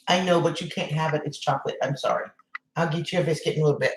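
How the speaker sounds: quietly, hushed, talking to the dog; soft aside. Real, not acted. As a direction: drop your voice for a quick aside. Aside to a pet about chocolate.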